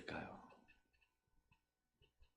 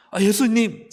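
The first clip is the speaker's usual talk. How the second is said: loud, higher cry of a frustrated Martha; exasperated complaint; 8 semitones higher, 10 dB louder, slower than usual. Pretend. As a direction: call out to Jesus in annoyed protest. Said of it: "말하죠". (마르다가 예수님께 따지며 외치는 소리)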